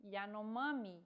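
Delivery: yanomami with the y as an I vowel, i-a-no-MA-mi; word demo. Shown as a demonstration. Teacher models yanomami for learners, careful pronunciation. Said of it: "The letter Y is read like the vowel I".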